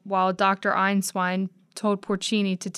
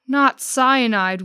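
wheezed; 4 semitones higher, 6 dB louder, slower than usual. Acted. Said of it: "wheezed Porcini".

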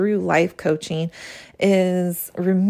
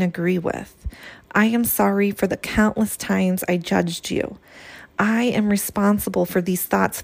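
heartfelt journal reading. Acted. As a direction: read each line as a gentle apology to your own soul. Reads her journal prayer to her soul.

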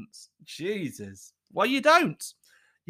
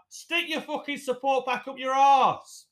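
higher, fed-up snap; angry outburst; 9 semitones higher than usual. Real, not acted. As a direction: tell them where to stick it.

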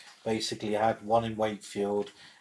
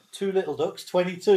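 bingo caller; 7 semitones higher, 4 dB louder than usual. Shown as a demonstration. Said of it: "I was a bingo caller".

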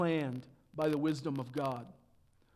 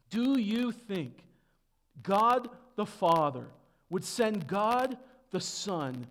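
raised rhetorical challenge from the pulpit; emphatic preaching; 5 semitones higher, 4 dB louder than usual. Acted. Preacher challenges congregation on God's plan, emphatic preaching. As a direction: put the question in weighty, separated phrases.

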